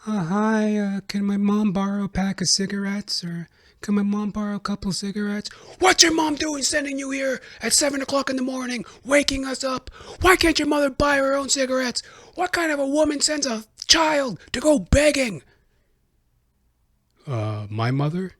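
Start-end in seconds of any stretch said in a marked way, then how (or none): 0.1-5.5 put-on higher, timid child's voice asking a favour; little kid asking. Kid asking neighbours for cigarettes. 5.8-15.4 much higher, indignant scolding, ending in a whisper; angry neighbour. Retold or imitated. Neighbour scolding the child at dawn.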